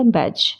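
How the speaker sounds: बैज ending on a simple j; बैज with no d stop; silent D. Shown as a demonstration. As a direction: say बैज as baj. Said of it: "डी को silent कर दिया".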